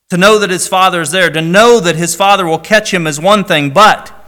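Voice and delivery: preacher rising to the point; building emphasis. Real, not acted. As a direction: drive home each know.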